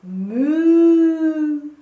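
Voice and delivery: booming cow moo. Shown as a demonstration. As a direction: moo like a cow with big lips. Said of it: "And again".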